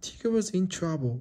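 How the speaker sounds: ordinary delivery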